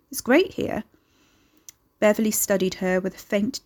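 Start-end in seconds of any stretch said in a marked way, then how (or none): 0.1-0.8 pitched-up false cheer; false insistence. Acted. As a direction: insist it lightly, covering a lie. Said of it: "Carrie insisted, lying".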